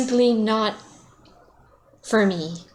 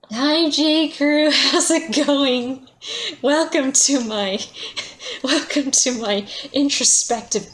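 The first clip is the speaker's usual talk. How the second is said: cheery greeting; 7 semitones higher than usual. Real, not acted. Streamer greeting chat warmly.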